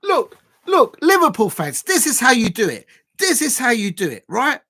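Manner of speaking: loud, high gloating call to rival fans; gloating taunt. Real, not acted. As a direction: rub it in their faces, loud and high. Taunting rival fans, goal scored.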